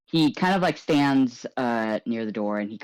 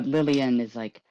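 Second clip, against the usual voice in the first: ordinary talk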